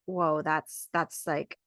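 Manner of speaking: lightly voiced doubtful partner reacting to home birth; worried partner. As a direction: voice the nervous partner hearing the plan. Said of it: "your partner might be like".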